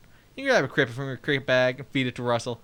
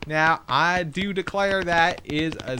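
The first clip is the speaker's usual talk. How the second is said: grandly drawled mock declaration; hammed-up declaration; slower than usual. Player exclaiming over the stupid walk, hammed-up declaration. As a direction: declare it with slow, hammed-up pomp.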